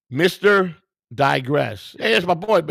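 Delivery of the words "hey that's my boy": excited greeting. Real, not acted. Greeting a viewer he likes.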